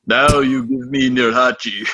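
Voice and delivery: movie gangster. Retold or imitated. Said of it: "the gangster at the beginning of Indiana Jones".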